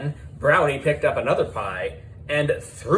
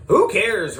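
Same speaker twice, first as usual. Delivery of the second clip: dismissive; 6 semitones higher, 4 dB louder than usual. A narrator's reading. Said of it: "replied Miss Beard".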